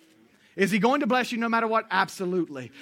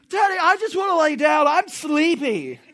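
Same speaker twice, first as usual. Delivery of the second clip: put-on whiny little girl; 8 semitones higher, 8 dB louder than usual. Preacher imitating his daughter begging to lie down. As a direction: drag it out like a tired kid.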